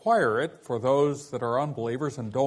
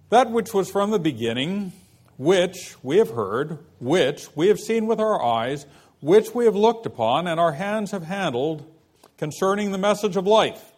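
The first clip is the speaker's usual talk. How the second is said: louder, measured Bible reading; scripture reading; 3 semitones higher, 4 dB louder than usual. Acted. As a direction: read the verses out with weight. Reads scripture passage aloud.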